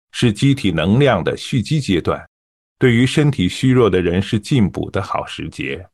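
even, unhurried broadcast reading with steady breath; smooth expert reading. Shown as a demonstration. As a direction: read it like an expert, calmly and evenly. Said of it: "你给我们演示一下吧". (娓娓道来、平顺稳定的专家播读)

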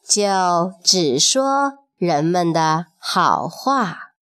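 measured, expressive storyteller delivery; storybook reading with lingering phrase endings; children's story narration. A narrator's reading. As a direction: tell it slowly to little listeners, phrase by phrase.

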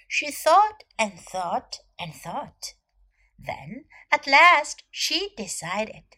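put-on measured storytelling for children; story narration. A narrator's reading. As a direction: read it out clearly, like a picture-book story.

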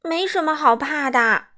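brisk no-nonsense calm; crisp and matter-of-fact. Acted. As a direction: say it flatly, no fuss. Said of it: "嘟嘟干脆地说".

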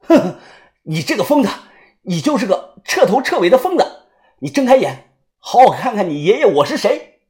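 loud, scornful taunt; defiant sneer. Acted. Captive taunting the madman, loud and scornful. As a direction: spit the words at him in contempt.

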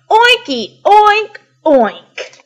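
high, loud, exuberant oinks; triumphant pig-talk shout; joyful joining in. Acted. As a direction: belt it out with delight. Elephant joins in joyfully.

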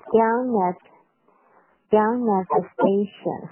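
slow, "down at" run together as one word; linked DOWN AT. Shown as a demonstration. Teacher demonstrates linking, slow joined "down at". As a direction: glide the n of down into at. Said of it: "down跟at做一个连读".

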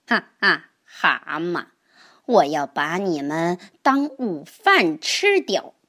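a hint of a sly snake, laughing menace; lightly voiced snake gloating over lunch; hungry snake. Hungry snake threatens toads. (饥饿的蛇威胁蛤蟆，略带狡猾)

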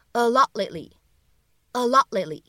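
"a lot lately" with both T sounds held unreleased; incomplete plosion. Shown as a demonstration. Teacher models the phrase slowly, "a lot lately" with unreleased Ts. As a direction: stop the T of "lot" silently, straight into "lately". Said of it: "又形成了一个不完全爆破的处理".

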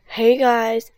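loud calling out; shout. Acted. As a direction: call out to friends. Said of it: "Andy shouted".

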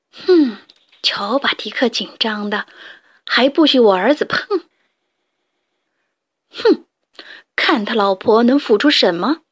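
understated huff of resentment; mildly indignant. Acted. Jealous mother hen grumbling about the rooster, mildly angry. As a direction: grumble with a touch of anger. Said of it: "气愤地说道".

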